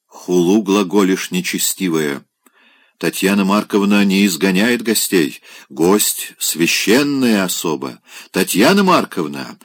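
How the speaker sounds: слегка напыщенный пьяный старик; проповедует, чуть захмелев; пьяное витийство. Acted. (Опёнкин с лёгким пьяным пафосом отчитывает Марину)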